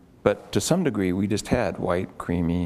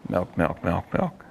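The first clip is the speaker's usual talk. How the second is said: rapid repetition; 2 semitones lower, slower than usual. Shown as a demonstration. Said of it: "I'll say it with you rapidly".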